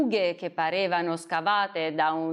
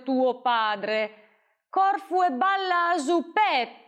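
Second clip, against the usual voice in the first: mocking, bossy bandit, a bit higher; lightly voiced sly outlaw; taunting a frightened mother; menacing bandit; 6 semitones higher than usual. Bandit threatens mother and boy.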